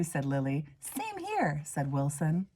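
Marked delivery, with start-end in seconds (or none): 0.8-1.6 eager agreement. Acted. Wilson agreeing quickly.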